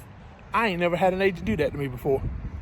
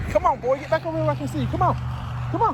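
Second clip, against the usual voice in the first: quick, higher call to the dog; 7 semitones higher, faster than usual. Real, not acted. Trucker calling his wandering dog back, quick higher call. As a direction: get the dog back in sight.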